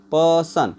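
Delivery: पर्सन drawn out in two parts, "puh-sun"; split into syllables. Shown as a demonstration. Teacher showing two syllables to students, split slowly. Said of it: "प आर silent सन".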